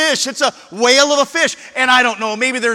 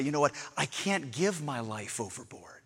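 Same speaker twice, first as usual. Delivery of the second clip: doubting believer; 10 semitones lower, 16 dB quieter than usual. Acted.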